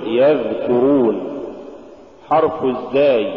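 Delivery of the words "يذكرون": يذكرون with the dhal sound flowing; yadh-kurun, continuous dhal in يذكرون; soft flowing dhal. Shown as a demonstration. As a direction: let the th-as-in-this run in يذكرون. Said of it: "قل".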